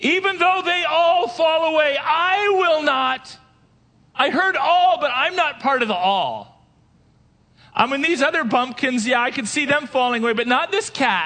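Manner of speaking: very high, put-on swaggering, blustering bravado. Speaker acting out Peter's reply from verse 29: retelling Peter's bravado. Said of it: "A lot of bravado".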